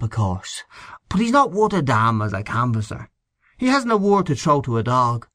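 brag, then drop into confidence; Henchy brags about his day's canvassing; voiced Mr Henchy.

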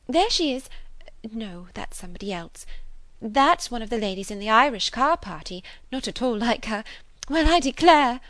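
high, fussy, excitable aunt; chattering aunt. A narrator's reading. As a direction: bustle along with sudden high exclamations.

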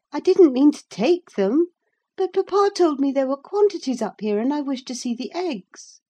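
put-on a girl defending herself to a stranger; earnest girl Cathy. A narrator's reading.

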